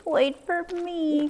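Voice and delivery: high, slow Mouse calling; Mouse crying out. Acted. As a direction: call after them as tiny Mouse. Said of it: "cried Mouse".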